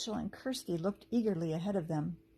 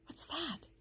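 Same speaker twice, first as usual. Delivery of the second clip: hushed, much softer question; whispered; 8 semitones higher, 10 dB quieter than usual. A narrator's reading. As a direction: drop almost to a whisper in alarm. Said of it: "she whispered".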